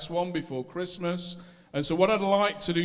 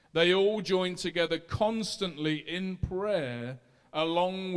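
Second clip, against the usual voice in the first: raised, steady reading of scripture. Acted. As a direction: read the passage aloud to the church. Reads Acts chapter one aloud.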